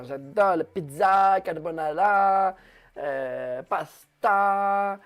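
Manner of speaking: hammed-up Italian lilt savouring each word; lightly voiced Italian accent; mock Italian accent. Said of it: "je fais un peu l'accent italien".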